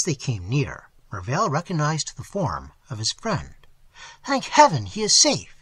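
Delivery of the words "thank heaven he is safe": high, loud exclamation; relieved cry. A narrator's reading. Mervale turning to the guide, crying out in relief. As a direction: cry it out, pitched well up. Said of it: "he cried".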